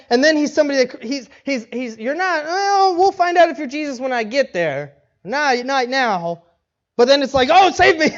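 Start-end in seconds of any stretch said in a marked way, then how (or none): 2.0-6.4 drawn-out, mock-doubting challenge; slowly taunt, dragging out the doubt; mocking skeptic. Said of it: "he's almost, like, mocking him". 7.5-8.1 higher, louder cry for help; hammed-up plea to be rescued; mock panic plea. Acts sinking Peter crying out.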